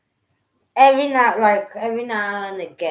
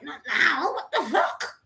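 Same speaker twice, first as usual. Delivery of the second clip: higher, irritated brush-off with a laugh; annoyed; 7 semitones higher, slower than usual. Retold or imitated. Retelling his mum calling mid-vision, laughing annoyed brush-off. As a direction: wave off the interruption. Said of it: "I'm like".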